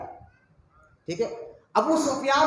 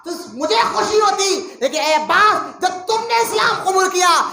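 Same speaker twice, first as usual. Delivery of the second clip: tearful declaration; 7 semitones higher, 6 dB louder than usual. Acted. Umar tearfully declaring love.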